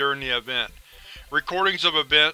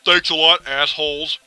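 angry; 4 dB louder than usual. Acted. Angry note from Hank.

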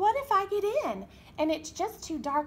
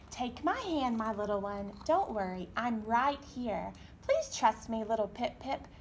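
coaxing mommy; 3 semitones lower than usual. Acted. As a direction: gently talk him into being brave. Mother coaxing her chick.

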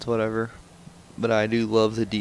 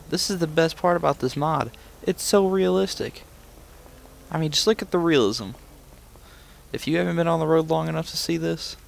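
mock-impressed, raised pitch; sarcastic praise; 6 semitones higher than usual. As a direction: gush with fake admiration. Sarcastic praise of burning engine.

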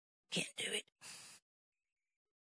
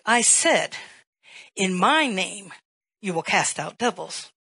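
angry Jesus; 7 dB louder, slower than usual. Retold or imitated. Angry Jesus rebukes preacher.

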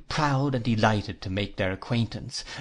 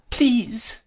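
pleading; 11 semitones higher than usual. A narrator's reading. Dora begs her sweetheart to stop, high pleading. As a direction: plead in a much higher voice. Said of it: "pleaded Dora".

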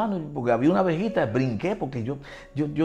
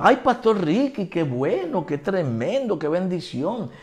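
mock gushing, jumping higher at first; effusive greeting; 3 semitones higher, slower than usual. Bank woman recognizing Pastor Ricky, imitated gushing welcome.

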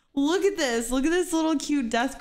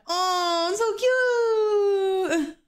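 gushing squeal; 7 semitones higher, much slower than usual. Real, not acted. Squealing to the dog about how cute he is.

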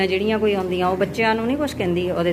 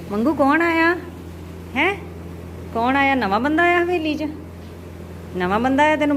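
excited calling; 5 semitones higher than usual. Real, not acted. Calling out to the cow.

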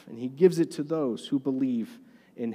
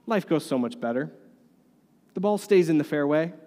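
normal talking voice

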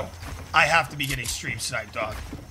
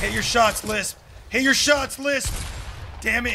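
raging gamer; 6 semitones higher than usual. Real, not acted. Yelling at teammate Lisp.

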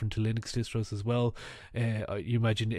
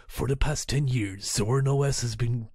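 loud, dramatic trailer narration; movie trailer voice; 3 dB louder than usual. Retold or imitated. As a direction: read it like an epic film trailer. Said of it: "almost sounds like the movie trailer".

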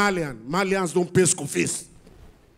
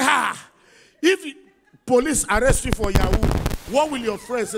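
alarmed father; 4 semitones higher than usual. Acted.

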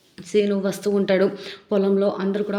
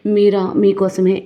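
slow, louder coy reply; woman teasing the man she pulled inside; teasing lure; 9 dB louder, slower than usual. Retold or imitated. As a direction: draw it out to tempt him. Woman luring Venkatrao inside.

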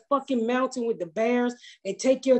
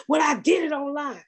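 higher, irritated retold yell; mock yell; 4 semitones higher than usual. Retelling a rude man yelling at the clerk, mock yell. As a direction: bark it like an angry customer. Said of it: "he was yelling at this lady".

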